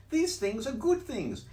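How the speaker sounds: high, bouncy cheeky cat; cat's voice. Acted. Cat in the hat teasing the fish, high and loud. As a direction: brush off the fish, playful.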